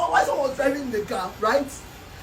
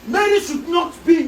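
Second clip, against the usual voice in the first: shouted, slow and emphatic; angry slow shout; 5 semitones higher, 3 dB louder than usual. Acted. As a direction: yell it out in protest. Heated quarrel over wife.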